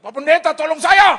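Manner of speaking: high, full-voiced retold scream; screaming for help. Driver to pastor who jumped off, high scream for help. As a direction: yell desperately for rescue. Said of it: "dia teriak".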